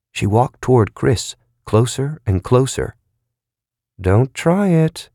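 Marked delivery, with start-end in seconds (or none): 4.0-5.1 slow, gentle warning. A narrator's reading. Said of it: "in a gentle tone".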